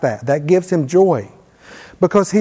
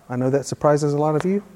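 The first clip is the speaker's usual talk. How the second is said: dry, deadpan irony, a touch softer; sarcastic; 3 semitones lower, 5 dB quieter, faster than usual. Real, not acted. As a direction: say it with a wink at the audience. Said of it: "and I'm being sarcastic".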